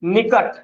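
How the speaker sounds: निकट with a short, relaxed first vowel; brief i in निकट; easy short i. Shown as a demonstration. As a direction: let निकट out easily, unstressed i. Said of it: "आराम से बोल दिए ना".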